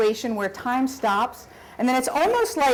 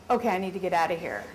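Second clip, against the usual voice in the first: hushed and fast, frozen in place; quiet rushed escape thought; quiet, quick thought; 3 semitones lower, 5 dB quieter, faster than usual. Retold or imitated. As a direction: murmur it fast so the spider won't notice. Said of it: "you just wanna be really still and quiet".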